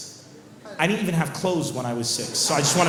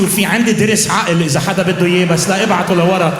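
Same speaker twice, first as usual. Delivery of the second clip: loud announcement; 7 dB louder, much faster than usual. Retold or imitated. Mock announcement over the plane.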